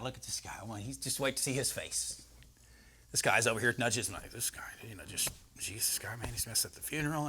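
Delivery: hushed gossiping mourner; whispering onlooker. Pretend. Mourners at the funeral gossiping about Jesus, whispered. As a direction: whisper it behind your hand.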